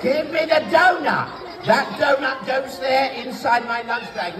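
mock shout. Magician mock-scolding dog puppet.

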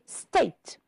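"state" as one syllable, ending on the T; silent final E. Shown as a demonstration. Teacher correcting syllable counts, "state" with silent E. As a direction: say "state" with no vowel after the last T. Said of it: "the E at the end is not pronounced".

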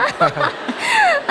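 squealing burst of laughter; high giggle. Real, not acted. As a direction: break into a high delighted laugh. Laughs after his denial.

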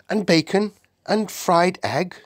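put-on high-pitched girlish request; eager little Sophie. Sophie asks the Queen for food, eager. Narrator voices hungry Sophie.

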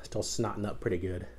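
whispered, worn-out aside; exhausted near-whisper after the chili; weary whisper. Real, not acted. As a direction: whisper it, spent from the heat. Nose running from pepper.

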